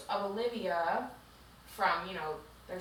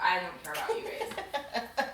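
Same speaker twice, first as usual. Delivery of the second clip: laughing dismissively. Real, not acted. Dismissing the book couple, laughing.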